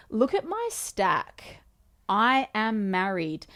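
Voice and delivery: retold comeback, slow and emphatic; emphatic insistence. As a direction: insist on it, stretching the words out. Retold argument over being married.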